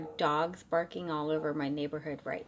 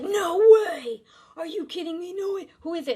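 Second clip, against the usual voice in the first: much higher, louder burst of delight; thrilled disbelief; 11 semitones higher, 8 dB louder than usual. Retold or imitated. Marine hearing a spirit wants him, high thrilled shout. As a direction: exclaim like the best news ever.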